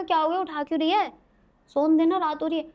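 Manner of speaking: mild mock grumble of a girl roused at night; annoyed sleepy protest. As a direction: raise the voice, cross at being woken. Herself woken, dazed and annoyed.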